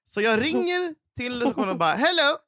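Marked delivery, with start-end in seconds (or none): 1.9-2.4 higher, careful English phone voice; slow, high-pitched English on the phone; retold phone complaint. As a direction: imitate a naive hotel guest complaining. Acts her English phone complaint.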